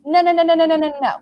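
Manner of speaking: no-no-no, firm and loud; emphatic no. Real, not acted. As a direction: shut the idea down hard. Emphatic rejection of that attitude.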